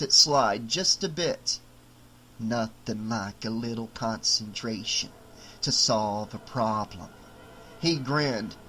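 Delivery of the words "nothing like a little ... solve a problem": trapped doll. Acted. Doll pleased with himself.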